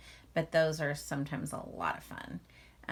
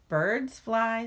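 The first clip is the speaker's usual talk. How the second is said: eager little bear; 5 semitones higher, 7 dB louder than usual. Acted. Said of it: "said Little Bear".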